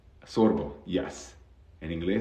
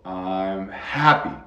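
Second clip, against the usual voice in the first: slow breathy practice; slower than usual. Shown as a demonstration. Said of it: "y puedes empezar así".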